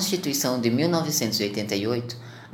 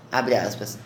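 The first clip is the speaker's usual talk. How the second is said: dictating; 6 semitones lower than usual. Real, not acted. Spoken quote marks in report.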